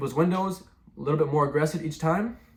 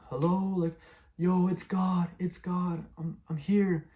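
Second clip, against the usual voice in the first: higher-pitched mock calling at strangers; aggressive calling out; 5 semitones higher, slower than usual. Retelling announcing himself as God, mock aggressive calling. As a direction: imitate hollering for attention, held back in volume. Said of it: "I was very aggressive".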